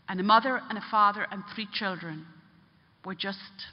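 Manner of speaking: retold somber admission; grave confession. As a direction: let the final words drop away heavily. Man confesses causing a family's death.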